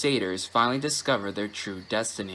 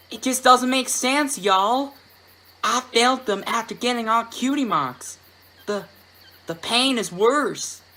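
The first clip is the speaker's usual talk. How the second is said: much higher, louder, pained filly; distressed country filly; 10 semitones higher, 4 dB louder than usual. Acted. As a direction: cry out like a hurting little filly. Apple Bloom in pain.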